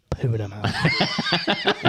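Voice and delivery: very high, slow, laughing squeal. Real, not acted. Joking Rory will win easily.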